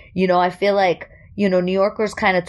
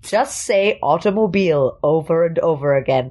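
mock voice coach. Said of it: "I'm the voice coach".

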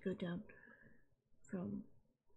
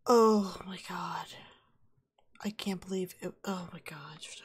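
dawning joy; 2 semitones lower, 5 dB louder than usual. Real, not acted. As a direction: breathe it out in disbelief. Finally solving the puzzle.

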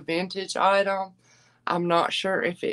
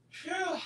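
tired phew; 10 semitones higher, 11 dB quieter than usual. Real, not acted. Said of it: "rough week hormonally".

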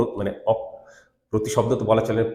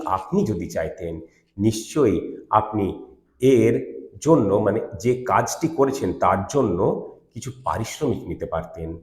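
humble, tired sadness; 4 semitones lower than usual. Shown as a demonstration. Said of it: "একটা হিউমিলিটির সঙ্গে, একটা টায়ার্ডনেসের সঙ্গে".

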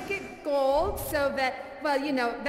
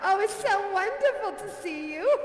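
bubbly hostess; 4 semitones higher than usual. Acted. Hostess character greeting audience.

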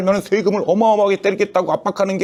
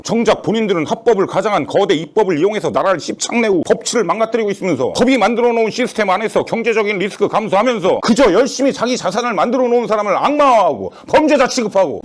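angry rant; 4 semitones higher than usual. Acted. Building rant.

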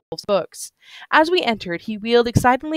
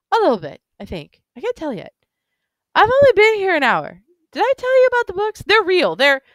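put-on gushing drunk man; 12 semitones higher than usual. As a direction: marvel drunkenly at every detail.

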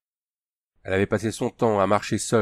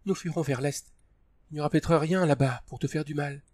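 Tania; 5 semitones higher, 3 dB quieter than usual. A narrator's reading. Tania pleading, crying.

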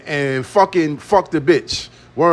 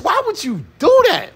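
exasperated shout; 11 semitones higher than usual. Real, not acted. Ranting at Kelly for telling everyone, shouting. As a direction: yell the question at her, fed up.

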